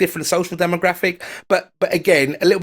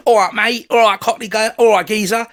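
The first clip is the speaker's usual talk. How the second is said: higher-pitched Cockney greeting; Cockney accent; 4 semitones higher, 3 dB louder than usual. Shown as a demonstration. Guest showing what Cockney sounds like, Cockney impression. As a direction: do a chirpy East London Cockney geezer. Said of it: "Cockney is specifically an East London dialect".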